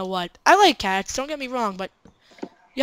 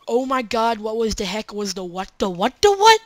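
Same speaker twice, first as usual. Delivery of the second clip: mock panic. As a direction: parody her flustered yelp. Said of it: "I believe the words were".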